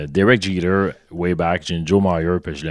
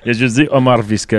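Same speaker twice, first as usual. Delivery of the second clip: talking through laughter; laughing; 4 semitones higher, 4 dB louder than usual. Real, not acted. Laughing while retelling the dream.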